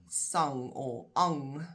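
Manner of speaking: sang and ang drawn out slowly; stressed last syllable. Shown as a demonstration. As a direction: isolate sang, then ang, holding each one long. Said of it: "emphasis is on the last part".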